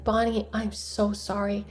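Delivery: softly voiced condolence, retold; gentle sympathy. Emma comforting Bonnie on the phone, gentle sympathy. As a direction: console a hurting friend quietly.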